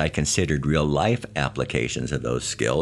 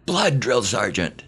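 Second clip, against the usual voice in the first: high, slow shouted reply; drawn out parade command; 7 semitones higher than usual. Retold or imitated. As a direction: drag out a recruit's yelled answer. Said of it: "we screamed back".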